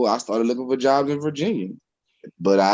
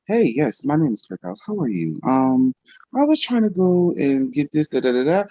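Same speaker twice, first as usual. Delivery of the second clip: lightly put-on polite caller voice; proper phone voice; 3 semitones higher than usual. Shown as a demonstration. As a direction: switch on a slightly formal customer-on-the-phone voice. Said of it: "I can turn it on. Hey, when a bill collector come".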